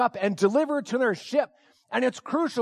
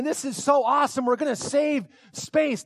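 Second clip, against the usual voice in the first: higher-pitched retold excitement; excited thought; 4 semitones higher than usual. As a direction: relive being thrilled by the mission. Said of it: "I'm so excited".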